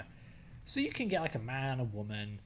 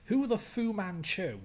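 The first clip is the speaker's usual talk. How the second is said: high loud joking cry; excited silly exclamation; 8 semitones higher, 5 dB louder, slower than usual. Real, not acted. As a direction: blurt it gleefully. Covering swear with pun.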